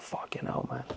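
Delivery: retold under the breath, very soft; stunned, hushed realisation. Man retelling the question hitting home, stunned hush. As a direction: let it out as a barely voiced reaction.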